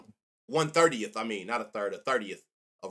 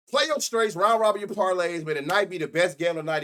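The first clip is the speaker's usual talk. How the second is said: higher and louder, belting out the sign-off line; shouted catchphrase; 5 semitones higher, 6 dB louder than usual. Shown as a demonstration. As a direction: call the catchphrase out big to the viewers. Betting sign-off catchphrase said twice.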